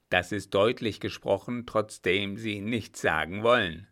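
menacing captain. Acted. Captain answers the scheming baron.

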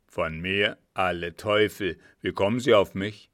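put-on low-pitched, forceful old conspirator; alarmed old man. A narrator's reading. Seated old man learns they spoke of him, agitated demand.

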